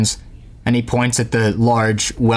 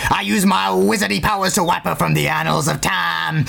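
put-on old wizard's voice climbing higher; crazy old man; 5 semitones higher than usual. Old man boasting of wizardry, then begging meat, high eccentric voice. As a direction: play a mad grandpa, pitch rising as he goes. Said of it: "The old man laughs. He goes".

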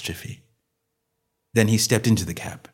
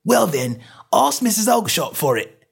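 angry retort; 11 semitones higher than usual. Acted.

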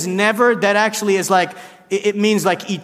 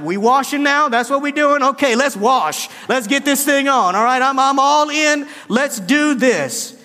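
higher, pumped-up all-in voice; eager Peter; 5 semitones higher than usual. Retold or imitated. Peter to Jesus, now eager for washing, higher pumped-up voice. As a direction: get hyped like a teammate ready to go.

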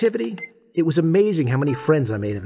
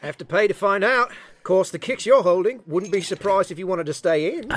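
a hammed-up Aussie bluffer, Australian accent; bad Australian accent; 3 semitones higher than usual. Player bluffing at the poker table, bad fake Australian accent. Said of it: "I know my accent sucks".

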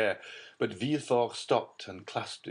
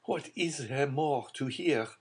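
alarmed; 7 semitones higher than usual. A narrator's reading.

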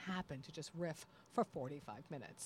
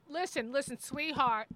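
higher, lightly voiced reprimand; scolding comic; 7 semitones higher, 6 dB louder than usual. Performer telling the crowd he can't work like this, scolding. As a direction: lightly mimic a fed-up performer.

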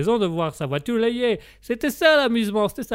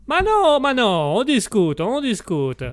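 protesting innocence; 5 semitones higher, slower than usual. Acted. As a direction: brush off the accusation with emphatic denials. Brushes off accusation of teasing him.

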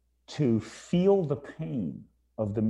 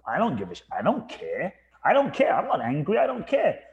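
a flippant shrug of a voice, pitch jumping higher on "I don't care"; mock defiant indifference; 6 semitones higher, 3 dB louder than usual. Retelling how he once brushed off his anger, mock defiant. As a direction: toss it off like he couldn't care less.

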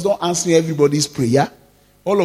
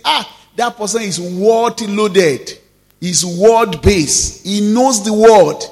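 slow praise rising to a louder peak; admiring praise, building; 4 dB louder, slower than usual. Retold or imitated. People admiring a word-filled believer, building louder. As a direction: praise them more loudly as it goes. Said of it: "they then say".

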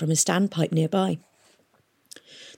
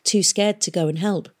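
usual speaking voice

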